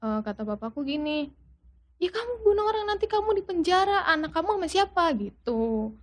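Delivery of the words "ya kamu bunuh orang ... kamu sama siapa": imitated pleading argument; retold remonstrating father. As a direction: voice a father talking someone down.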